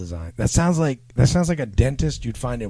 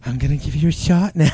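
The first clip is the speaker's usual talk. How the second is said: lightly voiced nurse, pitched higher; mock nurse; 4 semitones higher, 4 dB louder than usual. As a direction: play a hint of a nurse, higher. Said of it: "big boobed nurse, didn't you?".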